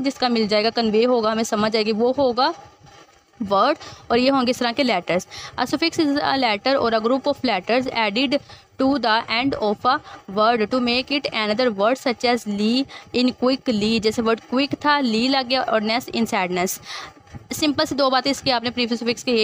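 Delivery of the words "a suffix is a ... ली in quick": very slow, careful dictation read; slow deliberate classroom reading; slow textbook reading. Acted. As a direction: read it out word by word for students. Reads textbook definition aloud.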